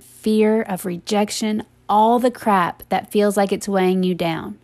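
steady, measured pep talk straight to the listener; earnest reassurance. Real, not acted.

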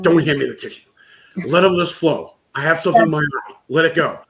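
loud, insistent refusal; loud mock protest. Crying man refusing tissues from the group, loud mock protest. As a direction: wave off help at full volume, playfully.

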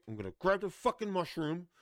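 escalating furious retelling, voice climbing; building rant. Retold or imitated. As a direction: wind yourself up line by line like the loop is taking over. Ranting retelling of mushroom loop.

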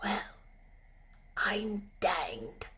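soft awed whisper. Acted. Ben not wanting to scare the robin, soft whisper. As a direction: breathe it so the bird stays. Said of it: "He spoke quiet, in a whisper".

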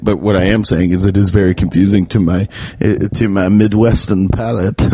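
low, lightly faked Midwestern accent; mock Midwestern accent sliding toward French vampire; fake Midwestern accent. Comedian jokes about his palate in a fake Midwestern accent. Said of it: "And that's the Midwestern accent".

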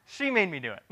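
mock Adam, giggling as he blames her; pointing the finger through laughter; laughing blame-shift. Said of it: "What does Adam say?".

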